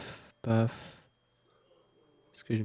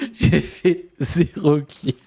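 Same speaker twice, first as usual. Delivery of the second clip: slow words broken by real laughter; laughing; 6 semitones higher, much slower than usual. Real, not acted. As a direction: laugh through the line at your own bad game. Laughing at own zero kills.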